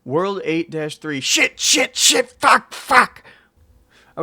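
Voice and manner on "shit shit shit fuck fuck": high loud panicked cursing; panicked swearing. Real, not acted. Panicked swearing mid-level.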